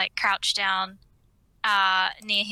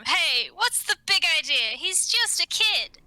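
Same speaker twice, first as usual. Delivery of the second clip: half-hearted indignant call, a bit higher; mild shout; 7 semitones higher than usual. Acted. Cassie calling out the figures for scaring the kid, mild mock shout. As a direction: scold them without much volume. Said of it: "Cassie's just gonna shout at them".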